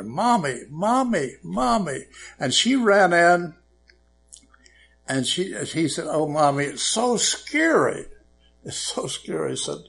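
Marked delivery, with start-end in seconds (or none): 0.0-2.1 put-on hollering child. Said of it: "He kept hollering for his mother". 6.1-9.5 lightly acted frightened child, pitch lifting on the first scary; scared child. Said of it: "the child was scared".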